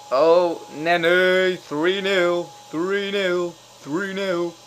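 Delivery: high, loud chanting cheer, easing in volume; gleeful repeated cheer; goal celebration. Real, not acted. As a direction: crow the score over and over. Celebrates third goal, repeating the score.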